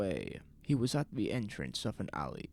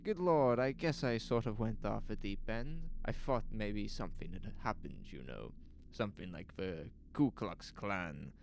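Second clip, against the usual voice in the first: higher, eager and apologetic; anxious to be let go home; flustered shopkeeper; 5 semitones higher than usual. Acted. Shopkeeper pleading with the officials to release him, higher and anxious. Lois excusing himself to police.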